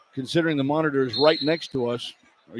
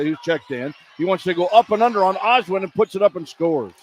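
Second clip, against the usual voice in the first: brisk running basketball commentary; live play-by-play; 3 semitones higher than usual. Real, not acted. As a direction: call the action as it unfolds. Play-by-play call.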